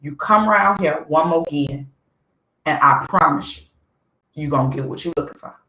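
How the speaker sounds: acted cool promise of trouble; straight-talking threat. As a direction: give it to them straight, no dressing up. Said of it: "I would say it just like that".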